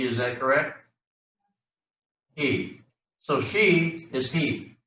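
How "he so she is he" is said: slow explanation. Shown as a demonstration.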